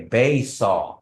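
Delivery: Bay saw with a falling close; Kiowa phrase. Shown as a demonstration. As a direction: give Bay saw as the correct form. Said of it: "but you say".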